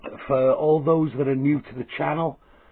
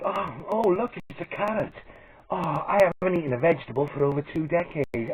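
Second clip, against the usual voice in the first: mock missus voice; 3 semitones higher, 3 dB quieter than usual. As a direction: pipe it up a little as the missus, lightly mocking. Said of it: "she'd be like".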